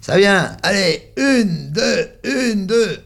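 high, loud heave-ho count; children shouting. A narrator's reading. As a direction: call out the rhythm while hauling the rope. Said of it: "la voix des enfants qui crient".

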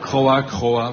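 un «croa» de corbeau un peu plus fort; croassement de corbeau. Acted. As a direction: imiter le corbeau. (croassement de corbeau)

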